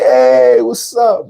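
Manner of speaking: drawn-out hey, then jump up high; retold surprised greeting, swooping upward; shocked greeting. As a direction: imitate a pleasantly startled hello. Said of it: "He was shocked to see me".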